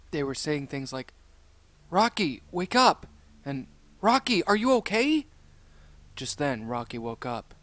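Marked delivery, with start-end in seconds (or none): 1.9-3.1 higher, louder urgent call. A narrator's reading. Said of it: "voices calling out to him". 4.0-5.3 high, loud worried call. A narrator's reading. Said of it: "voices calling out to him".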